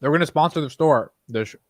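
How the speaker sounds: talking around ice in mouth. Real, not acted. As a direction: mouth full of ice, words blurred. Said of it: "sorry, I have ice in my mouth".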